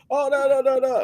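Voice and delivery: high dismissive no, no; high-pitched scoff; scoffing bar guy. Retold or imitated. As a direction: wave him off in a high mocking voice.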